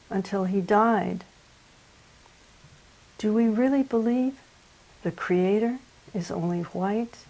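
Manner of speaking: measured elegy, paused after each short phrase; poetry reading. Acted. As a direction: read a poem in mourning for a child. Reads elegy for a child.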